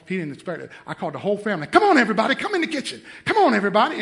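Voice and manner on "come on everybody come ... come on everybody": a hint of a dad calling everyone in; lightly voiced call to the kitchen. Dad calling the whole family into the kitchen, lightly voiced. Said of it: "calling family to the kitchen".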